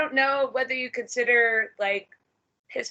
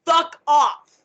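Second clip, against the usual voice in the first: blunt profile warning; 3 semitones higher, 4 dB louder than usual. Retold or imitated. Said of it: "in big bold letters on my FetLife profile".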